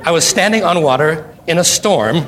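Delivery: chuckling through the words, amused; laughing. Real, not acted. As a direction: laugh it off while making the point. Laughs at Jesus' question.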